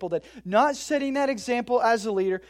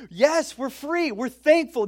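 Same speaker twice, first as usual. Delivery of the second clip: mock joyful Israelites; 6 semitones higher, 4 dB louder than usual. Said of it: "God's people are like".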